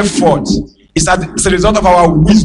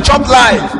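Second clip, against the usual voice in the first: shouted chop life; 5 semitones higher than usual. Retold or imitated. People hailing the rich man, shouting Chop life. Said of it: "They told the man".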